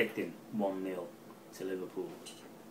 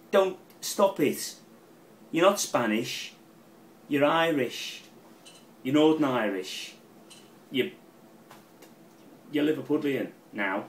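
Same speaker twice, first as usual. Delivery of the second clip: loud, higher mock telling-off; mock scolding; 5 semitones higher, 7 dB louder than usual. Loud raised mock reprimand. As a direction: fan scolds manager Rodgers for sounding Spanish, loud mock telling-off.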